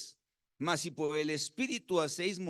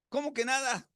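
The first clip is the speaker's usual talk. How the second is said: surprised teacher; 8 semitones higher than usual. Retold or imitated.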